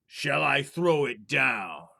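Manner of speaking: slow, drawn-out ghostly call; a spirit moaning down the chimney; eerie chimney voice. Acted.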